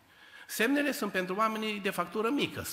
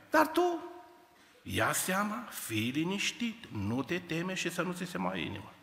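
reassuring God. Acted. Prophecy repeated, softer.

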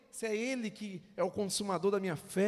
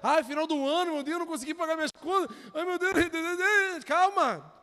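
mock panic; 7 semitones higher, 8 dB louder than usual. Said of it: "dá uma risada aí".

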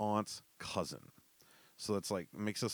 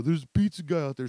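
tipsy excitement; 8 semitones higher, 10 dB louder, faster than usual. Retold or imitated. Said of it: "one of 'em looks out".

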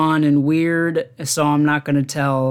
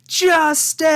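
yelled triumph; 14 semitones higher than usual. Retold or imitated. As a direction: belt it out like a vindicated fan. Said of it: "he just yells".

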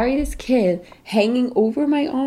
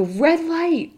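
game call; 10 semitones higher than usual. Retold or imitated. Mom calling game command.

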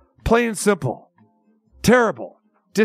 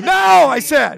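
long, loud, raised "no"; exasperated shout; 4 semitones higher, 5 dB louder, slower than usual. Real, not acted. Host refusing more of the jingle, shouting in exasperation. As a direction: draw it out and shout over the noise.

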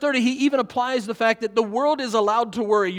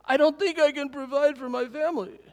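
higher-pitched mock tearful little boy; imitated crying child; 5 semitones higher than usual. Retelling young son's night-time worry to the congregation, mock crying in higher voice. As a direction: mimic a child fretting through tears. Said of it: "and he's crying".

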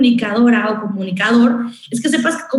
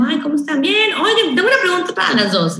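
sweet caller; 6 semitones higher than usual. Retold or imitated. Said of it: "así como".

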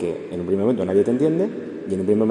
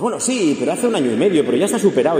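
raised, lightly voiced grieving person brushing it off; quoting a grieving person; 6 semitones higher, 4 dB louder than usual. A mourner tells the counsellor it's all behind them, lightly voiced. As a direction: play the one who insists it's over, a notch higher.

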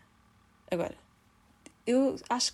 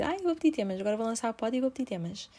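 imitating herself; 3 semitones higher than usual. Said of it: "Eu estou sempre a dizer".

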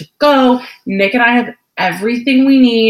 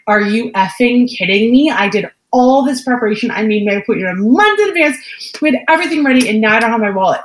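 retold exasperation, pitched up; exasperated outburst; 3 semitones higher, faster than usual. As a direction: replay an indignant, incredulous rant. Retold outburst at forgotten wallet.

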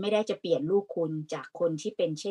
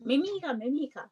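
emphatic denial; 8 semitones higher than usual. Real, not acted. Firm denial to guest.

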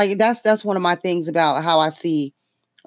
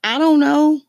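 high, loud exasperated I don't know; 10 semitones higher, 5 dB louder, slower than usual. Real, not acted. Comic venting about Tulsi's suit, high exasperated I don't know. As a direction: throw up your hands, high and loud.

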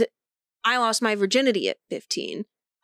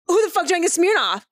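high-pitched retold outburst; zero-chill demand; 6 semitones higher than usual. Mom demanding who drank the Smirnoff, mock outrage. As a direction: demand an answer, voice shooting up. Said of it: "'cause I have zero chill".

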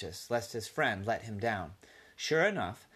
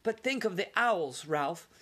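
high pleading mother; mild plea of a worried mother; imploring; 8 semitones higher than usual. Acted. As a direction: beg him to think again. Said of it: "implored his mother".

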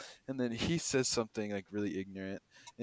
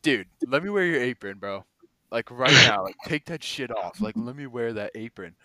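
pushy stoned guy; 10 dB louder than usual. Retold or imitated. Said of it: "he was like".

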